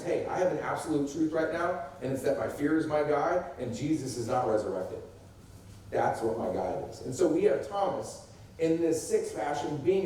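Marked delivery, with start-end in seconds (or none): 0.0-7.0 absolute conviction. Shown as a demonstration. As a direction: declare fear as a settled truth. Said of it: "The other one is".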